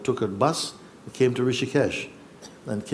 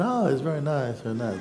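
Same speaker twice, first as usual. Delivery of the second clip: polite; 3 semitones higher than usual. Retold or imitated. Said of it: "I was just polite".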